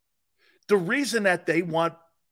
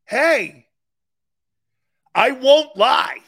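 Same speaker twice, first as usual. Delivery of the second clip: mock quote; 11 semitones higher, 6 dB louder than usual. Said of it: "And Trey Lance is like".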